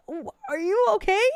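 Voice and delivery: high, stammered worried question; freaking out. Retold or imitated. Daughter once mom finally picks up, freaking out. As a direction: retell frantic concern, rising sharply at the end. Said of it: "freaking out".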